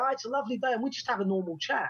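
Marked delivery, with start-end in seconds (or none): 0.0-0.7 higher imitation Dutch accent; Rutger Hauer. Actor chatting on his walk, imitated Dutch accent. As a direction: lightly mimic a contented Dutch caller. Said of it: "then he'd go".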